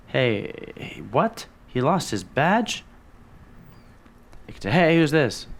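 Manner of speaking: a scoffing officer, caught off guard; incredulous surprise. Acted. Officer on the radio hears the lost badge story, incredulous. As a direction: voice jumps high in disbelief.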